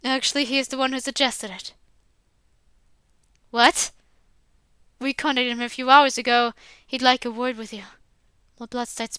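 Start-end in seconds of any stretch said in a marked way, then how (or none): 3.5-3.9 shocked what. Acted. Max learns father suggested expulsion.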